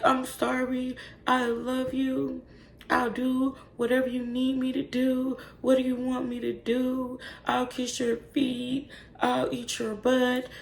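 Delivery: high, slow, drawn-out pleading; mock begging. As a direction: whimper like a begging puppy, mocking him. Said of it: "he's begging her like a little puppy".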